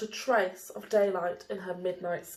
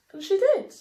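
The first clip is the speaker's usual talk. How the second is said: triumphant; 10 semitones higher, 6 dB louder, faster than usual. A narrator's reading. Triumph of finding Night.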